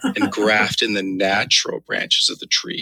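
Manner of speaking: slow, suggestive scripture reading; mock-lascivious reading. Co-host making scripture sound dirty, mock-lascivious. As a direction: draw the verse out as innuendo. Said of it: "read it like it was really dirty".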